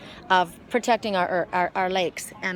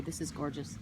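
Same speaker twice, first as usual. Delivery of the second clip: hushed awe; 7 semitones lower, 13 dB quieter than usual. Real, not acted. Admiring her glen.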